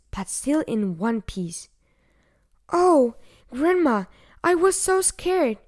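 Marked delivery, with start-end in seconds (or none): 2.7-5.6 put-on high, louder plaintive child voice; a touch of tearful fright, pitched high; acted sobbing. A narrator's reading. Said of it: "sobbed Little Red Riding Hood".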